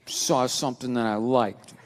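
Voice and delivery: put-on slow, low-pitched little-girl pleading; lightly put-on coy little girl, drawn out; little girl act. Wife angling for a gift from husband, little-girl act. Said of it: "She went with the little girl".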